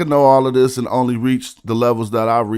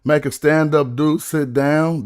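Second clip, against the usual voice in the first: questioning the bar. Shown as a demonstration. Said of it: "That's where you fell off".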